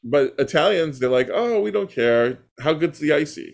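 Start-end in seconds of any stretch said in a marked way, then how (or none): 1.3-3.5 acted indifference. Voicing unbothered Italians.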